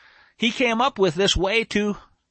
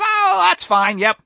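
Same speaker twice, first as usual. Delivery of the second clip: high-pitched, breezy acted agreement; offhand other woman; 9 semitones higher, 4 dB louder, slower than usual. Other woman agreeing to the king's cruel order, offhand. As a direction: toss it off as the uncaring rival.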